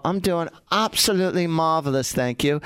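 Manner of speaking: lightly exaggerated English accent; put-on English accent. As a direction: answer in a jolly mock English accent. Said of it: "exactly the way I just said it with this accent".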